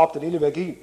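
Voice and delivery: put-on animated children's book narration; story reading. A narrator's reading. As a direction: read a children's story with lively dialogue. Reads from children's book aloud.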